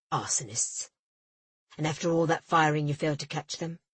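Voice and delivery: low astonished then scornful; an official sneering in disbelief; incredulous official. A narrator's reading. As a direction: scoff at her failure.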